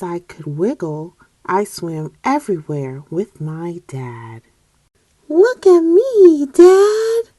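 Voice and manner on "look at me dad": high, loud eager shout; bright kid calling look at me; excited child call. Acted. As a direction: call out proudly to dad. Tad calls out excitedly.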